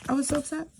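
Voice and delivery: high whiny repeat of I was so upset; playful high pitched complaint; mock whiny upset. Real, not acted. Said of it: "I literally was so upset".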